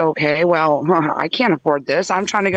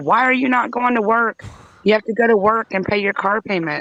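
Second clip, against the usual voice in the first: play-acted angry, berating mother voice, ranting; 4 semitones higher than usual. Retelling how mom berated her over the car: imitating mom screaming and yelling. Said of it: "screaming and yelling at me".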